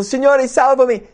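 high, urgent shout for rescue; acted cry for help. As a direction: cry out as if sinking. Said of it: "gridò dicendo".

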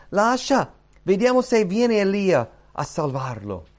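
loud, high-pitched call; scornful crowd's shout. Acted. Others at the cross telling him to wait, loud scornful cry. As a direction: call out as a scoffing bystander.

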